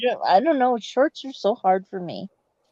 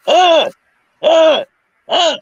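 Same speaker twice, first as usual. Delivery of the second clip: hammed-up seductive moaning; breathy, loud mock come-on; 9 semitones higher, 13 dB louder, much slower than usual. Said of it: "You gotta do it in a seductive voice".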